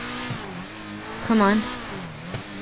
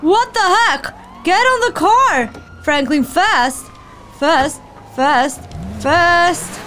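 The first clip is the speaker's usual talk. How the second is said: excited panic; 2 semitones higher than usual. Real, not acted. Player panicking as Franklin flees, yelling to go fast. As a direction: urge them to hurry, panicking. Panic during car chase.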